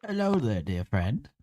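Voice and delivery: plummy upper-class hello; posh voice. Pretend. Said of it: "give him the most posh voice ever".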